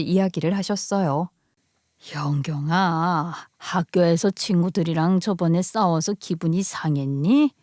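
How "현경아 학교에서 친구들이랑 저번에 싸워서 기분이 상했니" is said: gentle grandmother. Acted. Grandmother gently asks her granddaughter about the fight. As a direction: ask gently, not to pry.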